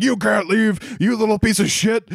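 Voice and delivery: a hammed-up furious dad losing it; imitating a dad freaking out, high and squeaky; mock freak-out. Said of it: "freaks the fuck out".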